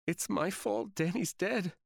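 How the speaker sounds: high, slow, broken voice; despondent. A narrator's reading. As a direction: say it with no hope left. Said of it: "the most despondent I've ever heard her".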